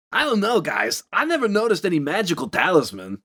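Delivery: mildly hammed-up movie quote; lightly mock an actor overdoing it; overacted. Podcaster mocking Johnny's big acting in the film, overacted. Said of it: "cranking the acting up to eleven".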